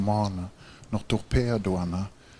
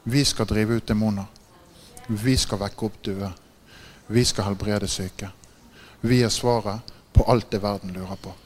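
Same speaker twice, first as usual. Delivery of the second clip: preaching proclamation. Acted. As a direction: proclaim each line like a rallying cry. Preacher proclaims what believers can do.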